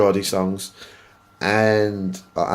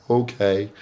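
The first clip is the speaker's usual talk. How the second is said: a hint of a chastened six-year-old; sheepish little okay, lightly imitating a child; naughty child. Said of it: "like a naughty, like, six-year-old child".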